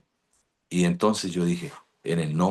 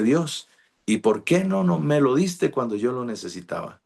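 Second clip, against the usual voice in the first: incredulous plea; 6 semitones higher than usual. Retold or imitated. Questioning God, retold.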